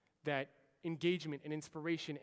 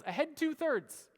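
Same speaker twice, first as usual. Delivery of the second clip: loud, slow, high shouted command; captain yelling an order at his crew; yelled order; 10 semitones higher, 6 dB louder, slower than usual. Retold or imitated. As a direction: bellow the order across the control room. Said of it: "So David yells".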